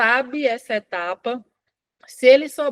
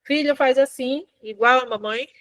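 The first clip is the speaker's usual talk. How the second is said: put-on mother prompting child. Shown as a demonstration. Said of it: "Imitar o outro é assim, ó".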